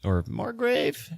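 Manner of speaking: "Margrave" with a long A in GRAVE; alternate pronunciation. Shown as a demonstration. Host giving listeners the other title, "Margrave" with a long A. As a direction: softly offer "Margrave", GRAVE rhyming with brave. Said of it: "however you pronounce that".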